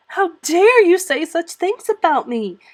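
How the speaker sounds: acted child's furious rebuke; vehement. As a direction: fling it at her. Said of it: "she repeated vehemently".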